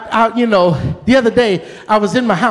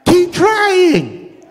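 calling back; 4 semitones higher, much slower than usual. Retold or imitated. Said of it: "I'm like".

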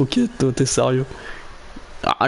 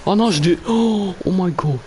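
panicked; 5 semitones higher than usual. Real, not acted. Panicking about dying.

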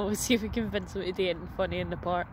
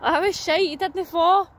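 high, loud mocking call; loud teasing; 10 semitones higher, 7 dB louder than usual. Real, not acted. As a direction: tease them at full volume. Teasing kid in playground.

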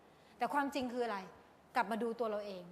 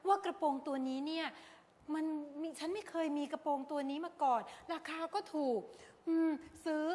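lightly voiced self-justifying shopper; a hint of a rationalizing buyer; imitated shopper; 3 semitones higher than usual. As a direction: talk yourself into buying. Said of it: "บางคนบอก".

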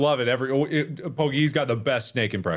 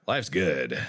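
low ominous; 6 semitones lower than usual. Pretend. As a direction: go dark and threatening.

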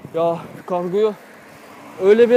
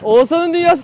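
announcer voice; 8 semitones higher, 7 dB louder than usual. Acted. Announcing his channel name again.

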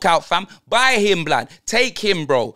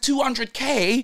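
slow disbelief; 4 semitones higher, slower than usual. Retold or imitated. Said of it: "Man said".

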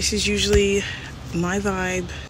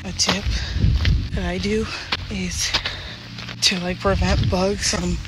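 breathless while hiking; out of breath. Real, not acted. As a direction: talk between hiking breaths. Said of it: "Sorry in advance for my breathing".

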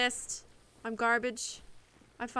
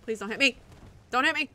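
pleading; 8 dB louder, much faster than usual. Real, not acted. Begging enemy during a fight.

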